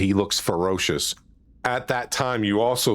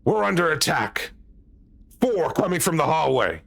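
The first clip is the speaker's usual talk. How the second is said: panicked; 6 semitones higher than usual. Acted. Panicked drow calls alarm.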